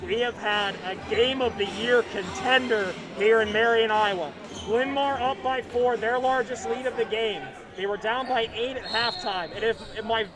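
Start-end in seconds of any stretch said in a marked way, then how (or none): 4.7-10.2 voice giving out. Real, not acted. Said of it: "I sound like I'm losing my voice, I am".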